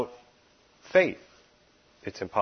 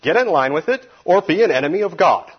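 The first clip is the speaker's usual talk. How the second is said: high, loud and forceful; stout; 8 semitones higher, 10 dB louder than usual. Retold or imitated. Preacher voicing Jesus's stern ultimatum, loud and high. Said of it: "it's stout".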